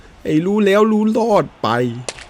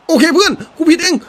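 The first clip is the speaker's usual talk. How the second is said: frantic admission; 11 semitones higher, 5 dB louder than usual. Real, not acted. Keeper blunder, yells apology.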